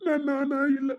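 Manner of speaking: crying, voice wavering; tearful. Acted. Father crying to his daughter about who he is. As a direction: speak through tears.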